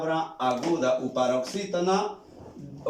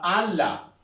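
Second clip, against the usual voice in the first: ala said as Á-la, stress on the first syllable; penultimate stress. Shown as a demonstration. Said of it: "su acento es grave".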